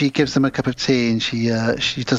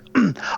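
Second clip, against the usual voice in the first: polite throat clear; 10 semitones higher than usual. Retold or imitated. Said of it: "very polite and British".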